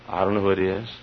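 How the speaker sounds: normal talking voice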